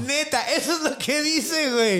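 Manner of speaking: giggling disbelief at the twist; laughing. Real, not acted. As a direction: laugh while insisting it's true.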